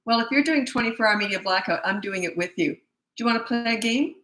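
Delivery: light, friendly invitation rising at the end; friendly parent offer. Shown as a demonstration. Parent to calmed-down child, friendly offer. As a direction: offer it kindly, as if nothing happened. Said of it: "and this is you".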